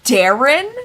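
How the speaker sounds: loud shocked question rising. Real, not acted. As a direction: gasp out the name in disbelief. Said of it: "shocked discovery while reading".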